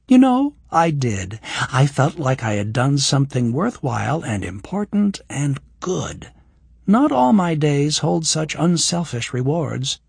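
lightly voiced young woman; Kira's voice. Voices Kira.

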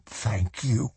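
soft, emotional murmur; tearful thanks. A narrator's reading. Sly Moody kneeling before Swan, softly tearful. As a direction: say it softly, as after a sob. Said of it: "He gave a muffled sob".

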